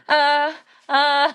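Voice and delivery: high, loud awkward "uh"; two high, forceful "uh"s of mock unease; imitated uneasy noise. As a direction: imitate an uncomfortable stammered "uh". Imitates uneasy look on Ashley's face.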